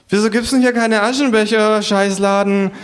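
high kangaroo voice, cursing. Acted. Kangaroo cursing the bar for no ashtrays, high kangaroo grumble.

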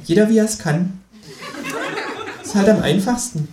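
the kangaroo laughs at his friend's writing, high and amused; teasing kangaroo. Acted. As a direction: chuckle the tease through it.

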